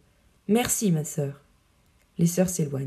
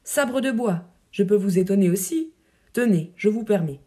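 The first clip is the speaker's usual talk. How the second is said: fureur bouffonne. Acted. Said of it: "Avec une fureur bouffonne".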